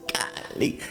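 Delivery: breathy whispered golly. Retold or imitated. Caught after blowing up the machine, whispered golly. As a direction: hush it out, sheepish.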